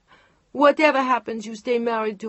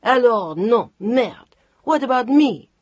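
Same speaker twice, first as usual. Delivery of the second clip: furious outburst; 5 semitones higher, 8 dB louder than usual. Acted. Chantal furious at Mark leaving.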